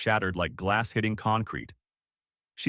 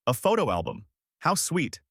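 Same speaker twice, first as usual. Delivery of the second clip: fake sweet; 7 semitones higher than usual. Sweet performance for the crowd.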